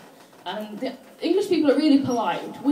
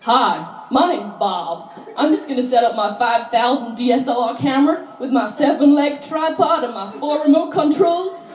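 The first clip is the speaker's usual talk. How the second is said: louder, slow boastful guy; mocking a macho photographer; 5 dB louder than usual. Comic mimicking a show-off photographer to her dad, loud and slow. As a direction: brag about his gear. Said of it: "he's like".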